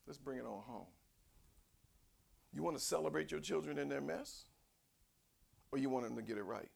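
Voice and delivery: ordinary talk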